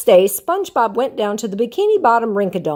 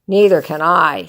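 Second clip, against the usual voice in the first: groaned; 3 semitones lower, 5 dB louder than usual. Acted. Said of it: "Squidward groaned".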